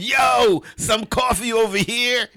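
high, loud imitation of a rude customer; mock shout. Customer calling for coffee in a restaurant, loud mock shout. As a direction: holler it across the room.

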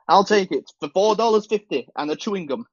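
laughing while haggling; laughing haggle. Pretend. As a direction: chuckle through the bargain.

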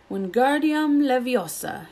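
shouted spell. Acted. Ron shouting the spell at his feather. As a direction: spell shouted high and slow. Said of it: "he shouted".

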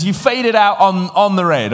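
high, loud retold punchline; teasing punchline. Repeats the punchline of his joke.

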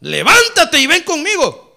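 high, loud call to come along; rousing summons. Acted. The Lord summoning the beloved, loud rousing call. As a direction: cry it out as a summons.

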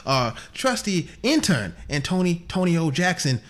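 John Thomas Aloysius Booth. Acted. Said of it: "It's John Thomas Aloysius Booth here".

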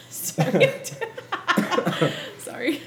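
laughing while choking; sputtering apologies through a choke; choking on a drink. Real, not acted. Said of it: "You're choking over there".

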